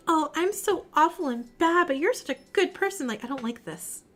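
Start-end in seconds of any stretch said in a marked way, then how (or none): 0.1-3.1 mock gushing. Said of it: "It's saying, like".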